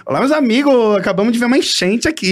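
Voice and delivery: cheerful greeting, bad news; impression of a singer. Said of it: "O cantor". (imitando um cantor)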